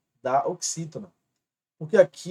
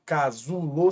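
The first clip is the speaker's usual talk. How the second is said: "casulo" broken up with ZU strongest; stress on ZU; 2 semitones lower, slower than usual. Shown as a demonstration. Teacher asking students to notice it, stress on ZU in "casulo". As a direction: lean on the ZU in "casulo". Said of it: "o zu é mais forte".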